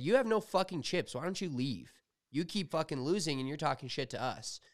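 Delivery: indignant retort, replayed for friends; retold angry challenge. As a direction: act out confronting a rude gambler. Retold casino argument, telling man off.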